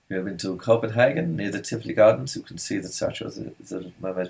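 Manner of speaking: quiet, badly faked German accent; mock German accent. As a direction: slip into a soft, shaky attempt at Danish that comes out German. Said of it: "a German accent".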